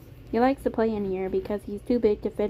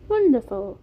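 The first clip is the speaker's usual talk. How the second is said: put-on louder, higher British-accented delight; Beam, British accent; 4 semitones higher, 7 dB louder than usual. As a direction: exclaim with pleasure in a British accent. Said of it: "It was a soft British accent".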